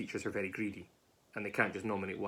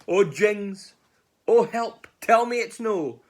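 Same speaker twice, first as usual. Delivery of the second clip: high, loud storybook panic; panicked cry; 10 semitones higher, 12 dB louder, much slower than usual. Acted. Mouse realising the gruffalo is real, high panicked cries. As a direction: cry out in acted alarm.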